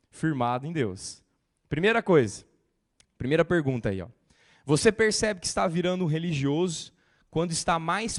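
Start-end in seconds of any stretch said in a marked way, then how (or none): none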